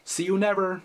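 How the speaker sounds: high, sing-song, cheeky goodbye; smug farewell. Acted. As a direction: wave off the parents for good. Teen leaving home at eighteen.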